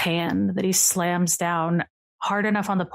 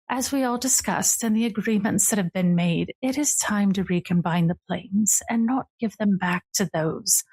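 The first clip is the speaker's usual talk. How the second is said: lightly voiced regal older sister, teasing; a hint of a grand lady purring at her brother; 3 semitones higher than usual. Sister greeting her brother on the porch, lightly regal and teasing.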